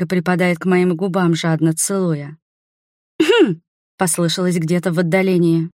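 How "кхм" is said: loud high throat-clearing; a sharp, high "ahem" to break up the kiss; pointed cough. A narrator's reading. Friend interrupting the couple's kiss, sharp high cough.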